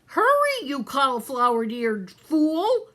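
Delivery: high, loud yell of Hurry, then an insult; angry shout. Acted. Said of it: "shouted Cook".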